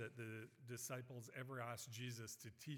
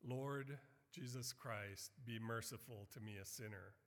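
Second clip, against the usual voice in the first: humble prayer. Retold or imitated. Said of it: "that prayer that the publican prayed".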